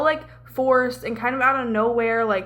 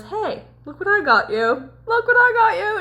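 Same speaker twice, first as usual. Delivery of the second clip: mock-excited, climbing much higher on the repeat; imitated excited reveal; 9 semitones higher, 4 dB louder than usual. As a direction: show off a gift, pitch leaping up. Imitating Cal waking her with gift.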